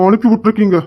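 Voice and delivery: brother angrily sending her away; angry dismissal. Acted. Brother ordering sister out, angry and sharp.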